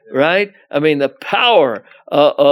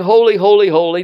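crying out; 5 dB louder, faster than usual. Retold or imitated. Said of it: "He's crying".

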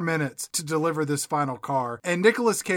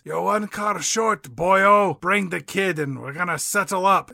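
slightly raised Scottish crime-boss voice; Scottish accent; 2 semitones higher than usual. Acted. Carpenter phones the crew elder, Scottish accent. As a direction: put on a Scottish accent, slowing at the start. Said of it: "why he has a Scottish accent".

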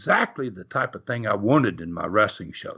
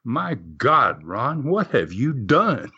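slow, grave, a bit lower; solid voice; 3 semitones lower, slower than usual. Retold or imitated. Kincaid to Ron after the stunt, grave and slow. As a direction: weigh every word, heavy and slow. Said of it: "in a very solid voice".

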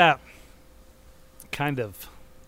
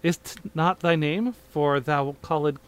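lightly hammed Shakespearean reading; hammy stage actor; 2 semitones higher than usual. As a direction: declaim it like an old stage play. Reads parody play in voices.

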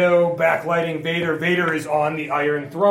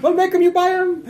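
salesman voice; 5 dB louder, faster than usual. Pretend. Voicing Ferengi salesman.

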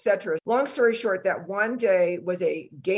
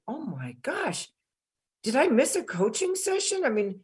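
stunned disbelief; 3 semitones higher than usual. Retold or imitated. Stunned by Paul's results.

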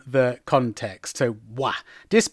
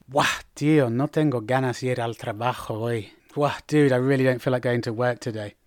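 low, weary reluctance; mildly fed up, dragging yourself along; sad, bored; 4 semitones lower, 4 dB quieter than usual. Shown as a demonstration. Friend dreading work today, bored and glum. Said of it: "or even sadness or boredom".

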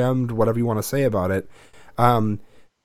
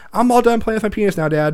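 imitating his son; 9 semitones higher than usual. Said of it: "He's like".

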